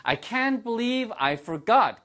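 high, slow, dismayed I can't believe; dismayed disbelief. Shown as a demonstration. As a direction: act out forgetting in shock. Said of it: "이런 식의 느낌이라고". (높고 느린 당황한 말투)

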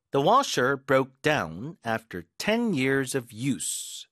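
usual speaking voice

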